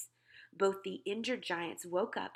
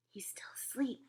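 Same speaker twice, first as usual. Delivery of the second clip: higher, hushed aside; whisper; 4 semitones higher, 4 dB quieter than usual. A narrator's reading. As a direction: whisper it so nobody wakes. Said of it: "the B F G whispered".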